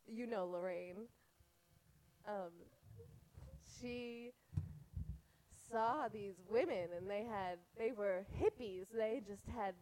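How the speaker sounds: put-on dad's voice in an Israeli accent; a light Israeli accent, quoting dad. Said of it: "I need to do this in an Israeli accent".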